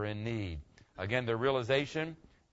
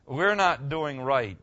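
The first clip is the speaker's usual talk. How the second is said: startled; 2 semitones higher, 8 dB louder, much slower than usual. Retold or imitated. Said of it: "they wake up and they go".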